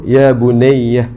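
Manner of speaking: slow, tender call to a daughter; "Ya bunayya" said slowly and lovingly to a daughter; tender address. Shown as a demonstration. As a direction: draw it out gently, like a loving father. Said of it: "dia akan sebut".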